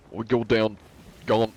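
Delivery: put-on faltering British accent; tentative stab at British. Streamer fumbling a British demonstration, British accent. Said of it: "British is like".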